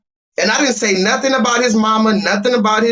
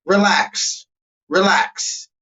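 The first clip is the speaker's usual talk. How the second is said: calming down; much slower than usual. Acted. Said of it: "Let's all just keep it calm".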